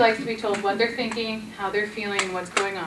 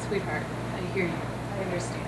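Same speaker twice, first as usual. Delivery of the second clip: soft and calming; 4 semitones lower, 7 dB quieter, faster than usual. Shown as a demonstration. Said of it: "talking really quietly and softly".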